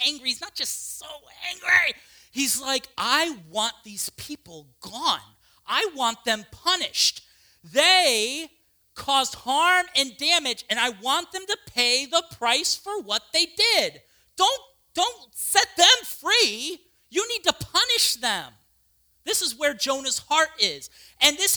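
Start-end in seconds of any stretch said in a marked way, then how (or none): 3.0-14.0 vengeful demand. Acted. Jonah demanding punishment. 14.4-18.5 much higher and louder, drawn out slowly; vengeful plea. Acted. Jonah urging God to punish enemies, high, loud and slow.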